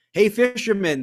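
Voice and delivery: calling out loud and high. Acted. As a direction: hail him across the harbor. Villagers call out to fisherman.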